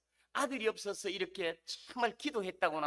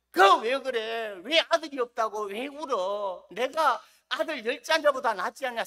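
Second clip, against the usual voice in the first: clueless husband; 2 semitones higher, 7 dB louder than usual. Retold or imitated. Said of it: "그 마음을 잘 모르고".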